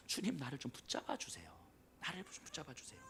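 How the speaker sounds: breathy whisper, pleading; whispered prayer. Acted. Believer whispering to the Lord to be held, hushed. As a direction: whisper the plea as if alone before God.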